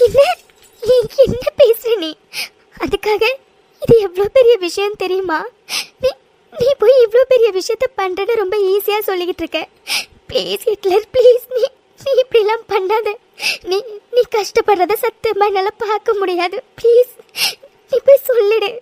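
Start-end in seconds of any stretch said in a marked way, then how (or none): 0.1-5.4 tearful reproach; words wet with tears; crying. Acted. Mithu cries, warning her husband how serious it is. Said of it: "தயவு செஞ்சு அழுகிறத நிறுத்துடி". 10.3-18.7 sobbing, pleading him to back out; crying plea. Acted. Mithu weeps, begging her husband to call it off.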